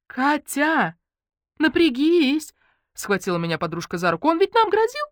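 put-on a high, urgent girl's voice; lightly voiced anxious friend; excitable girlfriend. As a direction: voice Lenka high and pressing. Lenka voiced by narrator.

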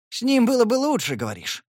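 put-on jealous boyfriend accusing; jealous outrage. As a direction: spit the accusation, then sneer.

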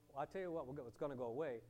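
low, soft, firm goodbye; soft, low and settled; calm dismissal. Retold or imitated. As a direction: quietly close the matter. Calm reply ending confrontation.

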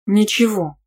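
mildly sweet politeness; a touch of polite sweetness; courteous. A narrator's reading. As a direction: answer with mock courtesy. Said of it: "любезно ответила я".

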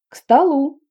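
high, loud happy call to the table; joyful call. A narrator's reading. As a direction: call everyone to dinner brightly. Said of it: "радостно позвала мама". (радостный громкий зов)

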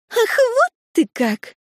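высоко, медленно, вспылив; взвиться от обиды; возмущённый вскрик. A narrator's reading. Лури вспыхивает в ссоре. (возмущённо вспыхнув)

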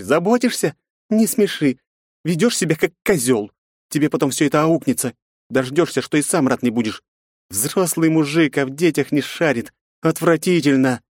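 high woman's voice, scornful scolding; a woman hissing contempt. A narrator's reading. Yufi scolds Pavel with contempt. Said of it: "прошипела Юфи".

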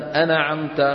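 أنعمت as "ana-amta", n given a short vowel; wrongly bounced noon. Shown as a demonstration. Teacher quotes what one must not say, bounced noon. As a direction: shake the silent n in أنعمت. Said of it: "فلا يصح أن يقول الإنسان".

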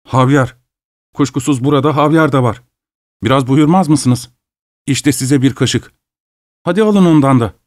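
tongue-tied, lips trembling; stammering, trembling lips. Acted. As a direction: stumble through it, shaken. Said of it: "dili dolaşarak ve dudakları titreyerek".

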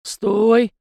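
a sharp, loud, high command; stern bark to halt the boy; sharp stop. A narrator's reading. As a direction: cut him off hard. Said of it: "жёстко осадил его Далибор".

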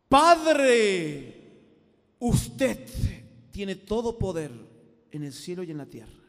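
put-on booming, solemn old-fashioned prayer; mock a stiff lofty prayer leader; loud grandiose churchy invocation; pompous formal prayer. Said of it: "hablaba así con un lenguaje".

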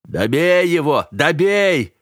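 loud, high shout urging him on; coach yelling. A narrator's reading. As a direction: bellow it from the ringside. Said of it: "орал у сетки".

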